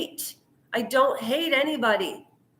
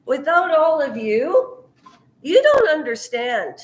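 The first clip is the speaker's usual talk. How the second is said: emotional yell; 3 semitones higher, 5 dB louder than usual. Real, not acted. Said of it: "Sorry, I yell".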